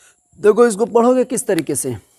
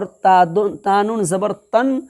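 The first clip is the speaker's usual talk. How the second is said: slow demo reading; slower than usual. Shown as a demonstration. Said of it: "کو ایسے بولنا ہے".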